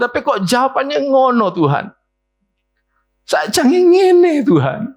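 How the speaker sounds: high, slow, whining plea that keeps climbing; mock a believer grumbling at God, rising to a wail; whiny complaint to God. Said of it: "kita merasa".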